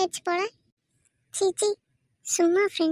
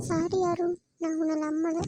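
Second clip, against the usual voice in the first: soft apology; 6 dB quieter than usual. Acted. Meera apologises to Arun.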